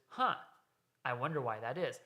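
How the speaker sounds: flat, knowing wonder that already has the answer; knowing sociopath tone. Shown as a demonstration. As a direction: ask it coldly, as if you already know. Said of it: "looking at him like a sociopath".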